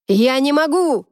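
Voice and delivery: shouting to the whole cafeteria. A narrator's reading. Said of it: "закричал он".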